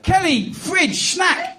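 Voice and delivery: curt orders in separate words; copying toddler demands. Retold or imitated. Husband trying son's method on wife, demanding. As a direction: mimic a child's commands, pitch lifting on the last. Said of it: "I'll try that".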